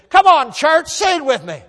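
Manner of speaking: rally the crowd like a stage singer; mimicking singer's call-out. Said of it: "and he said".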